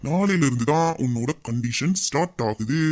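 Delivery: low, slow, smug gloat. Acted. Husband gloats to his wife, slow and smug. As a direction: savour every word as the king.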